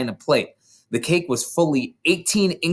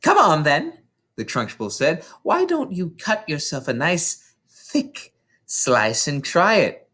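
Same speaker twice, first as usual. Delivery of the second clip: Trunchbull voice; 4 semitones higher than usual. Acted. Trunchbull coaxing.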